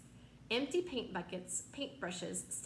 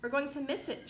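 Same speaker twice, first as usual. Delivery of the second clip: shouting; 5 semitones higher, 4 dB louder than usual. Acted. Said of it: "shouted the ladybug".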